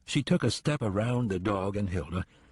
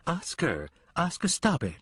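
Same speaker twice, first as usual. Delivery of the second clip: rising to a high, sharp "stop it"; sharp command; 8 semitones higher than usual. Acted. Lenora calls off her lunging hound, sharply. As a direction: call the dog off urgently.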